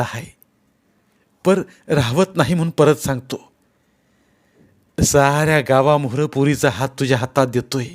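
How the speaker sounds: lightly voiced village elder, firm and emphatic; earnest sarpanch. Sarpanch entrusting the girl to Govinda, earnest emphasis. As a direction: press the promise home earnestly.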